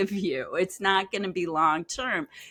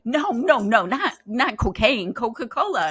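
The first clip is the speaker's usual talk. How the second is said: quick, higher, louder mock protest; insistent correction; 3 semitones higher, 5 dB louder than usual. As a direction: correct the mix-up emphatically, as the client.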